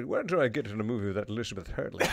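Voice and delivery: lightly voiced Sean Connery; Sean Connery impression. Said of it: "Sean Connery".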